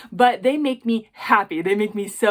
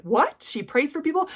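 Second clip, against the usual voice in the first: pitched-up incredulous question; mock surprise; 7 semitones higher than usual. Jeweler imitating viewers hearing she prays, mock surprise. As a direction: act out a taken-aback viewer, rising high.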